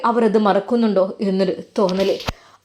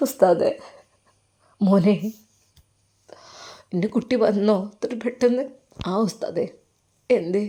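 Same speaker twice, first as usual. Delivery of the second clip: tearful reunion; 2 semitones lower, 4 dB quieter than usual. Acted. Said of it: "കെട്ടിപ്പിടിച്ച് കരഞ്ഞു".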